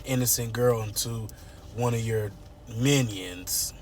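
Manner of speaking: bougie read-for-filth voice; low, measured scolding building to a firm order; haughty dressing-down, starting quiet; Anita. Retold or imitated. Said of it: "that's how they talk, bougie".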